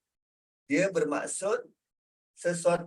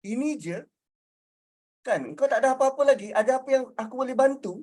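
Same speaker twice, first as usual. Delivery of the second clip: concerned offer, higher and quickening after a pause; second intonation, helpful; 5 semitones higher, much faster than usual. Shown as a demonstration. Speaker acts the helper answering Kak Liza, concerned and helpful. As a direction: ask as someone ready to help. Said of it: "Intonasi kedua".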